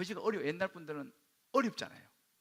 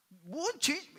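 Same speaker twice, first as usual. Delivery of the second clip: imitating an angry father, loud and high; indignant, raised-voice comeback; mock outburst of offence; angry retort; 9 semitones higher, 6 dB louder, much slower than usual. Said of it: "막 화를 내시면서 막".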